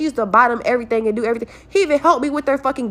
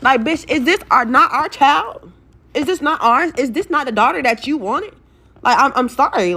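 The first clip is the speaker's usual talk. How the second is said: exasperated outrage; 4 semitones higher than usual. Real, not acted. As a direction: fire indignant questions at him. Outraged at the father.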